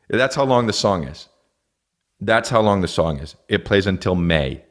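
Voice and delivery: ordinary talk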